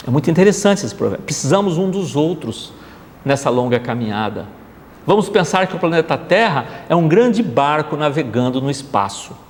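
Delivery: ordinary talk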